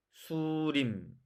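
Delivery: 수림 with a Korean tapped R; slow 수림, light flap on 림; Korean pronunciation. Shown as a demonstration. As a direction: draw out Korean 수림. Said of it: "한국말로 비교해 볼게요".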